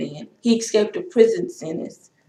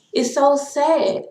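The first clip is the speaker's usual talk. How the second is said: drawn-out lament; 6 semitones higher, slower than usual. Real, not acted. Lamenting racism, repeats phrase.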